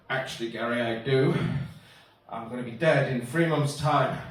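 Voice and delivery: low, understated glum admission; gloomy reply. Acted. Acted gloomy reply to consoling friend.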